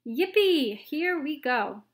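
high and loud, whooping; thrilled old man cheering; excited whoop. A narrator's reading. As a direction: ride the thrill. Grandpa Joe thrilled in lift.

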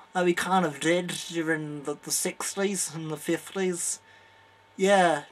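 put-on light Liverpool accent, laid-back; a hint of a Liverpool Beatle, peace and love; Beatle impression. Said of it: "Well, I'm from Liverpool".

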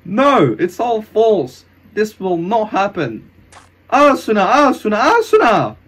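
high, loud desperate cries; desperate denial. Acted. Hero calling out for Asuna, desperate. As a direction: cry out in rising desperation.

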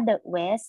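"the west" with a schwa in "the"; "thuh" before west. Shown as a demonstration. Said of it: "แต่ถ้า the west เราอ่านว่า the west".

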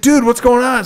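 high-pitched incredulous buddy; imitated bafflement. Buddy puzzled by the missed shots, high and incredulous.

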